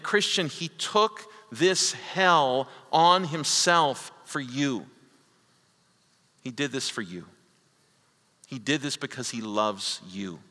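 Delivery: heartfelt, hushed personal appeal; tender appeal. Real, not acted. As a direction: lean in and plead gently that he did it for you. Preacher addresses Christian personally.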